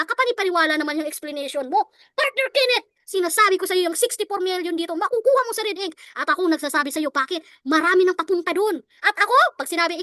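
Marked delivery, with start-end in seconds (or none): 2.2-5.9 eager pitch. Shown as a demonstration. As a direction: sell it with real gigil. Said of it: "dapat gigil ka". (masigla at gigil na alok)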